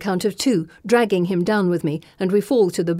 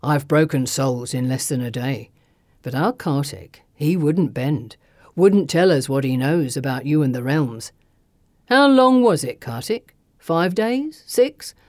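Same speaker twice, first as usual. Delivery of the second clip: taunting thug; 6 semitones lower than usual. A narrator's reading. Thug boasting of torturing his captive, menacing.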